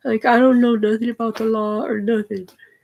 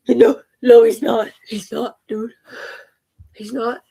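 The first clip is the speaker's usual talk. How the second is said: panicked, gasping for breath; hyperventilating; 6 dB louder than usual. Real, not acted. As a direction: struggle to breathe between words. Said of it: "hyperventilating over here".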